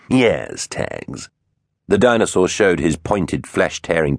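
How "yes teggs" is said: drawn-out, raspy confirmation; rasping villain. A narrator's reading. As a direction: rasp it, letting the name fade to breath. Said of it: "a rasping voice".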